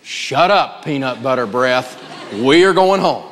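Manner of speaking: a hint of a fed-up mom laying down the law; firm parent. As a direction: settle it, we're going home. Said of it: "take a deep breath ... and go".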